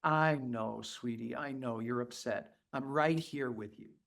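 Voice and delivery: very soft, tender comfort; tender soothing. Retold or imitated. Therapist comforting an upset child, very soft. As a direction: hush a crying baby gently. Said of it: "and say".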